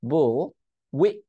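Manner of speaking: "wi-" broken off at the held T; stopped T. Shown as a demonstration. Teacher breaking the word up, stopped T. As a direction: cut "wi-" short before any T release. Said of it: "এখানেও টি উচ্চারণ করে নেই".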